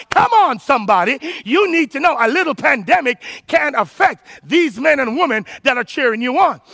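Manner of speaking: driving, emphatic sermon delivery; forceful preaching. Real, not acted. Preacher urging the congregation to clear their frame, forceful and insistent. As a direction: preach it hard, pushing through each phrase.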